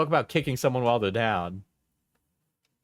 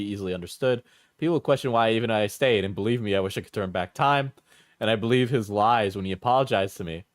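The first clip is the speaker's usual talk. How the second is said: put-on Cockney accent; faster than usual. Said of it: "Your Cockney is better than I thought".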